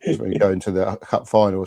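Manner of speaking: normal talking voice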